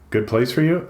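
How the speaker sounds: "Good place for YOU?" with the tune climbing at the end; questioning. A narrator's reading. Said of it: "There's a hint of question in what he asks".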